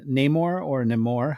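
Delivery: Namor said first with a long A, then with a short first vowel; two pronunciations. Shown as a demonstration. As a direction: say Namor both ways, NAY-mor or nuh-MOR. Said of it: "however you wanna pronounce it".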